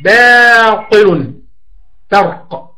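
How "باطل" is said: باطل stretched very slowly and louder, the ب firm and the ط heavy; drawn out emphatic demo. Shown as a demonstration. Teacher stressing a word's letters for students, slow and loud. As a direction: hold باطل long and strong. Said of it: "وباطل".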